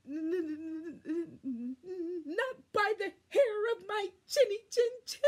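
high, loud, fast frightened squeal; terrified little pig squealing back; panicked squeal. Acted. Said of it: "squealed the panicked pig".

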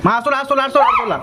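high, sing-song coaxing to mom; coaxing call. Real, not acted. Son coaxing mom to come to the table, high sing-song plea. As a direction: wheedle her into coming.

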